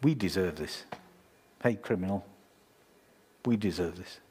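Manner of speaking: low, humble voice of the thief; a hint of a humble dying thief; humble criminal. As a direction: say it as a humbled man. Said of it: "He was humble".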